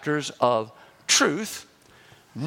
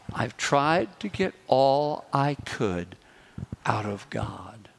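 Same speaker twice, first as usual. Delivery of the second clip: slower, fading down to a whisper on the last words; 6 semitones lower, slower than usual. Retold or imitated. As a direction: let it sink, trailing off to a whisper. Repeating the lady's key phrase.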